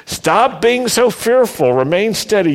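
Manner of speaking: high, amused and lively; laughing paraphrase. Shown as a demonstration. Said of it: "paraphrasing Moses with a laugh".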